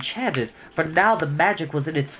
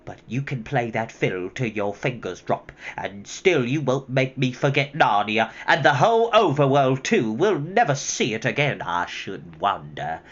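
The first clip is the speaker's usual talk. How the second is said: short of breath; 3 dB louder than usual. Acted. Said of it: "hasn't enough air".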